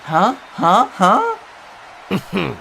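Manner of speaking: quick, laughing nudges; nervous laugh. Acted. Brother fishing for a response from Travis, quick and laughing. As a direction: laugh it off and prod him for a reaction.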